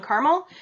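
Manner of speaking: "caramel" squeezed to two syllables, CAR-mul; "caramel" with no middle vowel, opened with CAR. Shown as a demonstration. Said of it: "a debate between people saying caramel".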